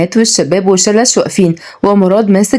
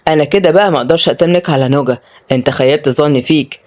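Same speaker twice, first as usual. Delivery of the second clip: mildly crafty man; understated teasing cunning; sly; 3 semitones lower than usual. Acted. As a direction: feign disappointment with a sly touch. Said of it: "رد مراد بمكر".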